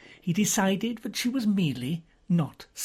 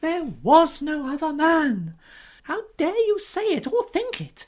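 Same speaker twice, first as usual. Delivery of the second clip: much higher and louder, slow fierce denial; indignant outburst; 12 semitones higher, 6 dB louder than usual. Acted. Lady Mary outraged at Parker's accusation, high and loud. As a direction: fling the words at him in outrage.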